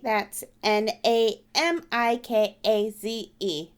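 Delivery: slow spelled-out robot voice. Shown as a demonstration. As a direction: read each letter like a robot. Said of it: "I always have to read it like a robot".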